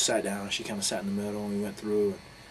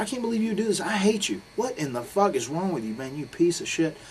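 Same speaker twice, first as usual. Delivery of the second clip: loud, high-pitched ranting disbelief; upset friend berating him on the phone; retold angry rant; 8 semitones higher, 6 dB louder than usual. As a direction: tear into him, louder with each insult. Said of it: "so upset and moved by the whole incident".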